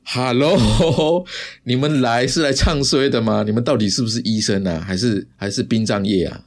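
mock-incredulous, laughing at the doctors; sarcastic mockery. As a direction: tease the doctors with a sarcastic hello. Mocking the doctors.

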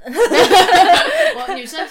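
big high laugh, stretched out very slowly; laughing hard, dragging the words. Real, not acted. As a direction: laugh loudly while getting the words out. Laughs at friend's remark.

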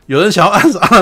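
high, loud dramatic repeat; excited emphasis. Real, not acted. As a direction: hype the danger. (激动地强调有人要暗杀)

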